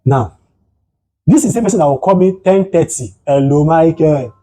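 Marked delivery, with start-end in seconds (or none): 3.2-4.3 slow, drawn-out imitation of a greeting; imitating housemate's greeting. Housemate calling at ten thirty, slow imitated drawl. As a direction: stretch the name out, mimicking him. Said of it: "that is way he speaks".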